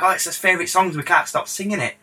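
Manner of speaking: high-pitched imitation of admirers; Latino girls. Girls telling producer about a rapper's favourite, imitated. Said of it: "They're like".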